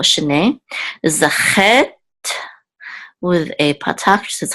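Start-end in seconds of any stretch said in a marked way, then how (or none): 0.0-0.6 "shene" with the stress on the final "ne"; stress on last syllable. Shown as a demonstration. Teacher showing the class where "shene" takes its stress, last syllable. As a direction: say "shene" as sheh-NEH, leaning on the end. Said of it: "the accent on the last syllable".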